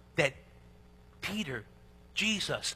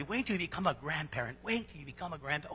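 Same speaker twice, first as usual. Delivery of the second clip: mock warning; 4 semitones lower, 8 dB quieter, faster than usual. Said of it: "People tell me".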